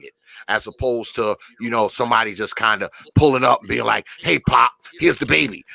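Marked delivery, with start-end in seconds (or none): 4.2-5.6 loud mock call to Pop. Someone dumping a baby on Pop, calling out loudly. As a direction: call it out like a hurried drop-off. Acting out a hasty baby drop-off.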